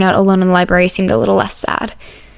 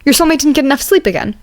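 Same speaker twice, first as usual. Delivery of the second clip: higher, courteous voice; polite classmate; 6 semitones higher than usual. Acted. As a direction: ask politely to join the table. Ida comments.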